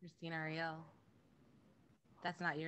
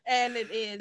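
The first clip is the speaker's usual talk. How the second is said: loud, tearful, higher; emotional near tears; 7 semitones higher, 16 dB louder than usual. Real, not acted. To the team about the finale, loud and teary. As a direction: push through the tears, overwhelmed. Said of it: "it's really emotional".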